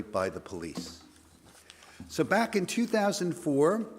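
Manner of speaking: hoarse, gravelly voice. Real, not acted. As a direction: voice worn rough from singing. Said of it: "if I sound a little gravelly".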